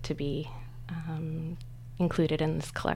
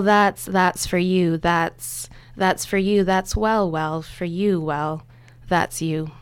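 slow, rhythmic recitation of repeated words; sound poetry; 4 dB louder, slower than usual. Shown as a demonstration. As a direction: chant each fragment deliberately, with pauses. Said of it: "read it a couple of times".

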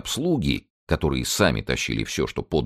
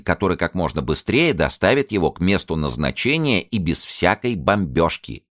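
paramedic ranting; 7 semitones higher, 4 dB louder than usual. A narrator's reading. Zinulya lecturing about the patient's needs, high and loud. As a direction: preach the patient's needs one by one.

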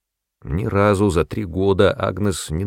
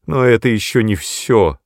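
louder, higher tearful voice; sobbing; 4 semitones higher, 5 dB louder than usual. A narrator's reading. Agnes weeps at the mother's feet, louder and tearful. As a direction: speak through sobs. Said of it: "рыдала она".

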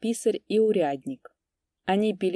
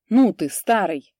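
much louder threatening snap; 2 semitones higher, 7 dB louder than usual. A narrator's reading. Kupriyan threatens the old priest, loud and menacing. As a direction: shut the old man up. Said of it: "угрожающе цыкнул Куприян".

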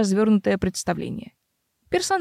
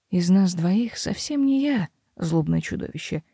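calm; 2 semitones lower than usual. Acted. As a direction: say it calmly, unmoved. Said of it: "проговорил он спокойно". (спокойно)

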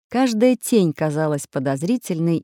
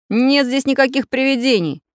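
higher, firm, displeased denial; frowning; 8 semitones higher, 4 dB louder than usual. A narrator's reading. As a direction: dismiss it with a frown in the voice. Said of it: "нахмурился Самоделкин".

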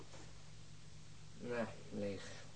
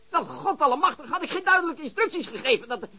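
exasperated; 6 semitones higher, faster than usual. Acted. Phone call, exasperated outburst.

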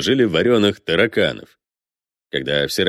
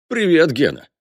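high-pitched talking parrot; little creature's high hello; parrot's greeting; 7 semitones higher than usual. Acted. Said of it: "Он эту фразу и заучил".

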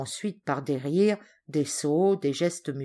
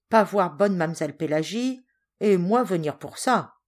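lightly voiced sailor, broken French, a bit raised; the big sailor asking boldly for food; pidgin-speaking sailor; 3 semitones higher than usual. The sailor Ramor asks the servants for food, lightly voiced.

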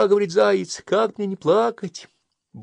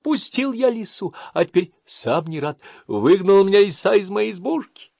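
a touch of crying hare; 11 semitones higher, 7 dB louder than usual. Acted. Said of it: "горько плачет".

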